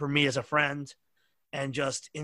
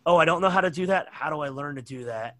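helpless newbie voice; 4 dB louder than usual. Retold or imitated. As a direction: play the clueless kid who gives up. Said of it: "you personify".

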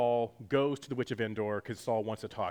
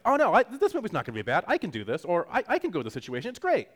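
bravado; 7 semitones higher, 5 dB louder, faster than usual. Retold or imitated. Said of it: "he's like".

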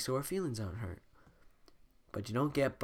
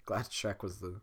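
whisper; 4 semitones lower, 5 dB quieter than usual. Real, not acted. Whispered aside.

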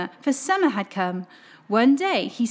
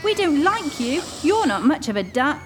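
lightly voiced jeering ducks; mean big ducks; 4 semitones higher than usual. Big ducks pecking at the duckling, mildly mean. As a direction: tease him like bullies. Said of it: "they quacked".

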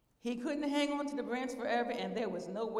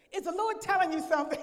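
reluctant questioning; 8 semitones higher, 7 dB louder than usual. Retold or imitated. Retells unhappily questioning the sister.

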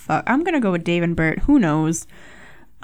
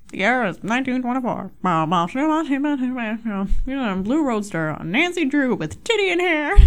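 brisk vintage newsreel voice; old-timey announcer; 4 semitones higher than usual. Retold or imitated. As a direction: rattle it off like a twenties radio man. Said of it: "there's this old-timey voice that comes on it and goes".

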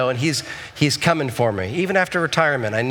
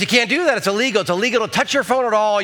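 higher, firm officer lecture; stern cop; 5 semitones higher, faster than usual. Retold or imitated. Motorcycle cop telling wife it's illegal, firm. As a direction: lay down the law.

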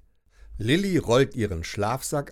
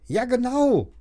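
put-on higher, louder eager boy; boy calling out; 13 semitones higher, 4 dB louder than usual. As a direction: insist loudly. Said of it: "ruft Leon".

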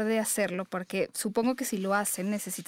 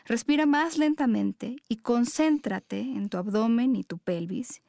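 guided meditation. Acted. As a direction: guide them gently into their breath.

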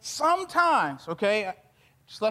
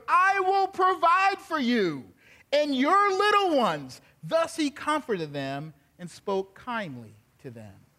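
measured, earnest Bible reading; scripture reading; 3 semitones lower than usual. Acted. Preacher reading Joseph's words to his brothers, measured and earnest. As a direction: read the passage to the congregation with weight. Reads scripture passage aloud.

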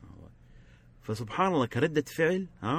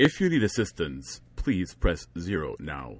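slow customer service voice; 5 semitones lower, slower than usual. Shown as a demonstration. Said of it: "it's like".

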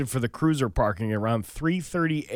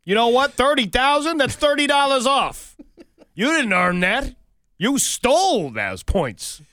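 higher, louder hammed-up accusation; mock interrogation; 9 semitones higher, 4 dB louder than usual. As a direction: corner the thief, slowing on the last line. Mock confronts thief.

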